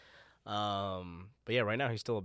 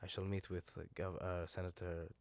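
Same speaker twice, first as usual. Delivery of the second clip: Sham's voice; 7 dB quieter than usual. Retold or imitated. Sham's voice, low.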